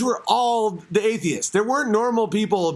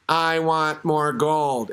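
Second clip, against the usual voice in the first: slow, drawn-out mock cadaver voice, lower; puppeteered cadaver; 5 semitones lower, much slower than usual. Host mocking a supposedly animated cadaver, slow puppet voice. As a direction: drone it slowly as a faked figure. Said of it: "And then you just are like".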